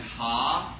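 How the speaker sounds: put-on dropped R in a Boston accent; imitating mom's Boston vowels; New England broad vowel; Boston-Providence accent. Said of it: "both from Boston and Providence".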